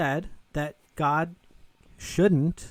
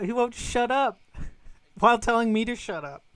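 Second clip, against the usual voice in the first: talking through a laugh at the irony; incredulous laugh at the opponent; 5 semitones higher than usual. Real, not acted. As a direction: chuckle while you complain. Laughs at being told off.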